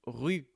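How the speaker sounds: rue said with rounded front u, not roue; teacher correcting rue versus roue for learners; rue with French u. Shown as a demonstration. Rue, lips rounded, tongue forward. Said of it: "on ne dit pas roue".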